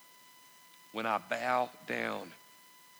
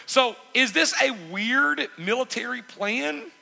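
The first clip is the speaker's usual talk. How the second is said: emphatic preaching; 11 semitones higher, 6 dB louder than usual. Real, not acted. Preacher at full force.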